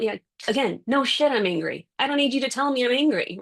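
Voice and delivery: fed up, rising to a fast indignant retort; irritated retort. Retold or imitated. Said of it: "And you're thinking".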